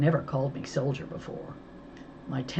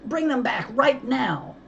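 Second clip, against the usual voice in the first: much higher and louder yell; shout; 10 semitones higher, 4 dB louder than usual. A narrator's reading. Mo shouting at the kidnapper. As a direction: scream it at him. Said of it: "I shouted".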